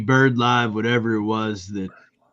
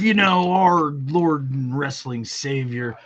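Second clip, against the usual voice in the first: high, slow mock-worshipful praise; slow, hammed-up devotion; mock reverence; 4 semitones higher, 3 dB louder, slower than usual. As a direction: hail him like a false prophet, tongue in cheek.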